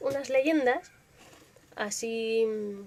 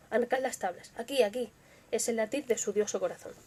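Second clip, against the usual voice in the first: tense, hushed horror storytelling; narrating a killer's feverish confession; dramatic story narration. A narrator's reading. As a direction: read it like a gothic confession. Reads Poe's Tell-Tale Heart aloud.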